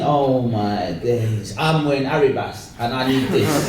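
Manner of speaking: low, slowed-down amazement; awestruck. Acted. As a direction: let it sink in, hushed pitch, full voice. His younger self awestruck watching videos.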